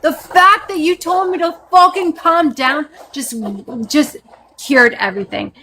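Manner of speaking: high-pitched, sarcastic outrage; exasperated fury. Real, not acted. Woman told to calm down retorts, exasperated and high. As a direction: throw it back high and incredulous.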